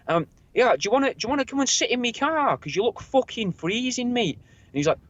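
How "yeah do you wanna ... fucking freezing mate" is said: friendly offer. Retold or imitated. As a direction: coax a cold old man into the car. Offering the old man a seat.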